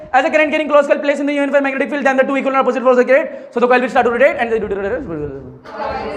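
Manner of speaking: slow, word by word dictation. Shown as a demonstration. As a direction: dictate each word slowly for notes. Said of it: "dictating notes slowly to class". (धीमे धीमे बोलकर लिखवाना)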